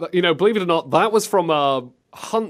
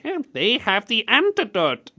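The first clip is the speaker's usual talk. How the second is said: higher put-on villain voice; mock game-villain line, pitched up; radio bad guy; 5 semitones higher than usual. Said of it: "bad guy over the radio sounds like".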